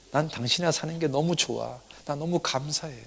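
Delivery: soft, acted loving reply; quiet voiced gratitude of a wife; tender wife. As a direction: answer your husband gently and sincerely. Wife tenderly answers her husband.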